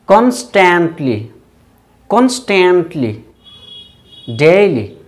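"every day", "Regularly", "Constantly", "Daily" said slowly, each with a falling tune; pronunciation model. Shown as a demonstration. Teacher leads students pronouncing adverbs after him, slow pronunciation model. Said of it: "Pronounce these adverbs after me".

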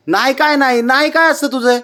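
playful teasing. Real, not acted. Mother teases her sulking boy, high playful questioning.

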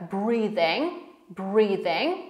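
"breathing" with a voiced th as in "the". Shown as a demonstration. Teacher shows the th sound, "breathing" said with th like "the". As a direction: voice the th in the middle of "breathing". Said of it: "to tychy jest jak".

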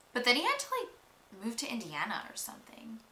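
drops to a whisper; hushed gossip. Acted. Confides secret, drops to whisper.

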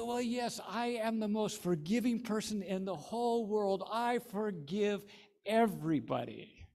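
high, loud, slowing on the last words; grand proclamation. Acted. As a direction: declare it proudly to the world. Nancy grandly forgiving all.

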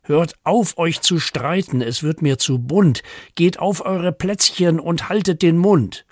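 animated, mildly cross telling-off; mock scolding. Owner tells quarrelling dog and cat off, mock scolding. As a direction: scold them in playful exasperation.

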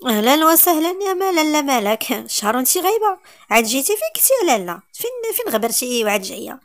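loud, high, hostile welcome; angry aunt. Acted. Aunt greeting her returning niece with loud hostility. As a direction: spit the welcome out with venom. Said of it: "بوجه غاضب وعينيها كينطقوا بالشر".

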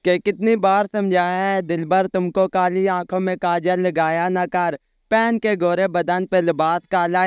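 poetry recitation. Acted. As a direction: recite the couplets with rhythmic shayari lilt. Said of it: "हम एक शेर सुनाना चाहते हैं".

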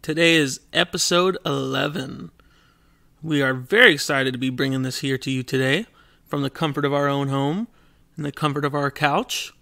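smooth news anchor delivery; newscaster voice. Acted. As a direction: read it like a TV anchor. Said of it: "Why do you sound like a newscaster?".

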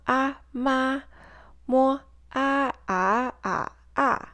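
mo and ma chanted through the four tones; tone drill on ma. Shown as a demonstration. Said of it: "put an initial in front of that final".

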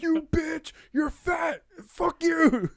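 very high-pitched squealed taunts; hammed-up falsetto tantrum; mock hysterical insults. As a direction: hurl insults in a silly high voice. Acting out flailing insults while punching.

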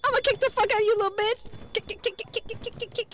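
fierce. Real, not acted. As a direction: fight back in fury. Fighting the monster.

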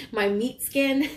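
slow, giggling through it; laughing. Real, not acted. Reader joking to viewers, laughing slowly. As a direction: chuckle the words out slowly. Jokey self-mocking phrase.

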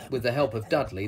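ordinary delivery, nothing marked

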